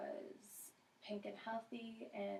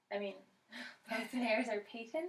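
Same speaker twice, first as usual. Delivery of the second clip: laughing; 7 dB louder than usual. Real, not acted. Laughing at own slip.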